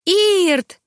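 high, loud cry of his name; joyful shout. Acted. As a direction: fling the name out as you run to him. Girl runs into his arms.

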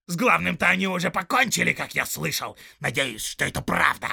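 loud, high raging orc; fearful, furious orc. Acted. Little orc raging at the soldier in fear and anger, loud. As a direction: rage at him out of fear. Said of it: "страх и злоба".

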